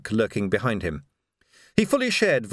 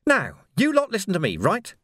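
high, punchy villain giving orders; bossy gang leader Carcer; 9 semitones higher than usual. Acted. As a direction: lay down the law to the gang, pitched up.

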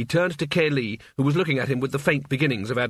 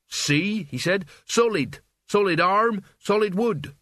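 put-on higher young voice, pressing each solid; lightly voiced Mort insisting; 6 semitones higher, slower than usual. Mort shows them his arm is solid, insisting. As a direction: prove it, building on each solid.

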